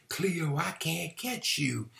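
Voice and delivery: put-on a tired child calling after her friend; exhausted cry. A narrator's reading. Josie calling after Cleo, breathless and lightly voiced. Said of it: "her exhausted cry".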